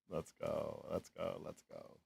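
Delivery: quiet cheer. Real, not acted.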